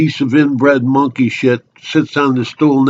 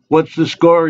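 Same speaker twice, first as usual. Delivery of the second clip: lightly voiced nosy stranger, pitched up; chatty barfly; 6 semitones higher, 3 dB louder than usual. Stranger butting in on a drinker at the bar, chatty barfly. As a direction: call it over like a pushy bar regular.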